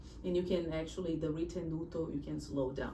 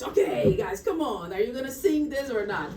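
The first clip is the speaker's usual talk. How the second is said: impatient outburst; 4 semitones higher, 5 dB louder than usual. Retold or imitated. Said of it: "like Chopin kind of lost his patience".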